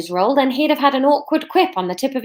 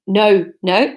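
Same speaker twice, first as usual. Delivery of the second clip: trying Scottish, landing on Irish; mildly Irish-sounding attempt; accidentally Irish accent; 4 dB louder than usual. Shown as a demonstration. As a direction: test the word NO in a Scottish accent, drifting Irish. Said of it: "that's Irish too".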